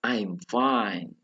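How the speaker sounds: "I'm fine" fairly level, easing down at the end; slightly flat intonation. Shown as a demonstration. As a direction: keep "I'm fine" even, with a small fall. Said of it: "itu sedikit datar".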